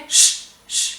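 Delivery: "je" as a bare "ch" without vowel; only the hushing consonant "ch" for "je"; isolated sound. Shown as a demonstration. Teacher showing what "je suis" becomes, isolated sound. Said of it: "comme ça".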